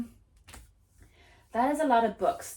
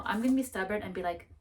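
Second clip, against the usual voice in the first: ordinary talk, nothing marked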